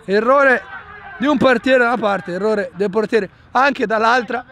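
excited play-by-play over the errors; breathless italian goal commentary. Real, not acted. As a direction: call the action live and amazed. Commentates two goalkeeper errors. (telecronaca concitata)

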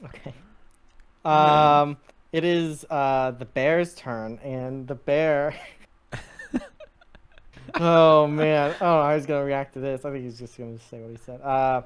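ordinary talk

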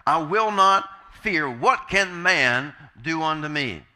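loud, slow and emphatic; bold declaration. Acted. Preacher completes the verse believers boldly say, loud and defiant. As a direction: proclaim it boldly, weighting each word. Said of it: "so that we can boldly say".

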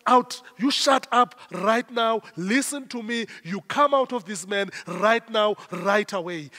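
firm, insistent rebuke; forceful preacher's command; unminced command. Acted. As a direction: order it out without softening a word. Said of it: "We do not mince our words".

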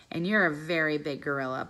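a lightly voiced cheeky little dog; Bob the dog. Dog Bob teasing the gorilla, lightly voiced dog.

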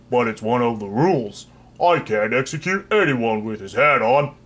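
lightly voiced mild, friendly headsman; a pleasant executioner reluctant to chop; gentle executioner.

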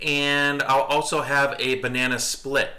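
mimicked unhurried dessert order; imitated kid ordering. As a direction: retell a kid taking their time ordering. Retelling a child's dessert order.

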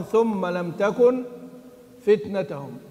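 slow, measured chant of the verse; Quran recitation. Shown as a demonstration. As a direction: recite it slowly, drawing out the words. Reciting Khalaf's reading. (تلاوة متأنية مرتلة)

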